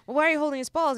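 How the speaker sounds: high, loud, disbelieving question; incredulous. Retold or imitated. To her newlywed friend, a loud incredulous demand. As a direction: ask it as if she can't believe what she's hearing. Friend's baffling bathroom story.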